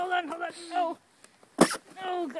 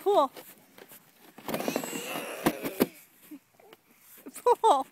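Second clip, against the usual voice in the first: urging shout. Real, not acted. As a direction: bark it out to the team. Urging the pullers on.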